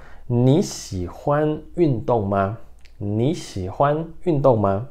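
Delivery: "你喜欢运动吗" read slowly and clearly; slow model pronunciation. Shown as a demonstration. Teacher repeating the Mandarin question for students. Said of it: "Então, de novo".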